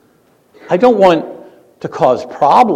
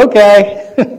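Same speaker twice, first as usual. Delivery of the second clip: put-on higher, sheepish teenage okay; meek teen okay; 7 semitones higher, 6 dB louder than usual. Teen answering his mom, higher and compliant. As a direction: give in like a teenager. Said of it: "I'd say".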